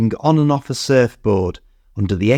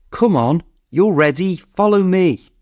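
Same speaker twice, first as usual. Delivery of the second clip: calling out; 7 semitones higher than usual. A narrator's reading. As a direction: urge him on from a distance. Calling across the waves.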